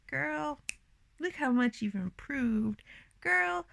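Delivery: put-on girl, look how far you've come, squealed; hyped self-talk. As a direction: gush like a proud best friend. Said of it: "so I can look back and be like".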